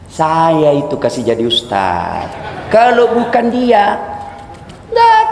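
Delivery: lightly voiced bragging man from Makassar; boastful man. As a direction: brag about the good you did. (pamer kebaikan dengan gaya orang Makassar)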